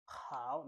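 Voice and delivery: Mandarin third tone on HOW, falling then climbing. Shown as a demonstration. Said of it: "The third tone".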